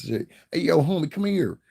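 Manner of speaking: high-pitched imitated street call; mock Cali homie holler. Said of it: "somebody says".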